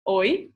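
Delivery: "oi" said slowly with a rising end; Portuguese pronunciation. Shown as a demonstration. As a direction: model "oi" clearly as one gliding syllable. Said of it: "to say hello, you say".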